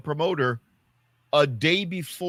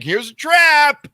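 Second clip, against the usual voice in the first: high, slow sly mock voice; drawn-out high teasing bait; mocking the tricksters; 11 semitones higher, 9 dB louder, slower than usual. A comic explaining the trap the women set, in a high slow sly voice. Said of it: "And they're like".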